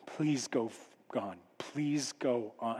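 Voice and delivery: low, soft plea under the breath; hushed pleading. Acted. Man hoping the strangers pass his house, hushed pleading. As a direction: beg quietly, barely voiced.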